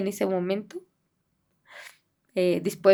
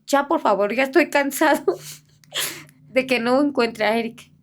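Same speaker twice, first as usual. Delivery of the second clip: retold exasperated plea, a touch louder; fed-up angry child; 3 semitones higher, 4 dB louder than usual. Boy confronting his missing friend's grandmother, mildly angry. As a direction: plead like a child who has had enough. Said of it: "viene enojado el niñito".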